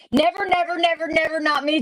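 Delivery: lightly voiced Teresa, high and playful; a hint of a sassy friend refusing, sung out high; quoting Teresa. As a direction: chat friend's protest, lightly imitated. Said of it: "Teresa said".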